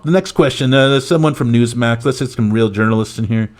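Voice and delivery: lightly parodied politician cutting in; Donald Trump. Acted. President cutting off a reporter, dismissive parody. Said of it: "Trump cuts him off".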